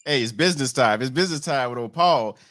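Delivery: rally the room like a showman; hyped announcer call. Real, not acted. Host kicking off the segment.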